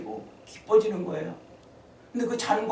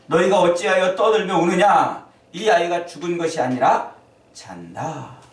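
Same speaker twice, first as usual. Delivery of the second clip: Jesus rebuking loudly; 3 semitones higher, 8 dB louder than usual. Acted. Preacher voicing Jesus' rebuke.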